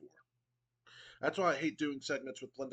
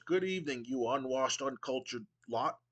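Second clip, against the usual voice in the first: pompous Regal. Acted. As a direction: sneer down at the crowd with mock refinement. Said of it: "William Regal goes".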